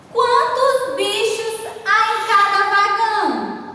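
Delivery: "Quantos bichos" held high, falling at "vagão"; questioning intonation. Shown as a demonstration. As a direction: ask it in a high, sustained tune. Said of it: "Observe que eu estou fazendo uma pergunta".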